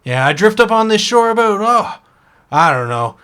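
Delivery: a small shellfish who insists he was once an orc; cursed oyster. Acted. GM voicing the cursed oyster to the elf, indignant.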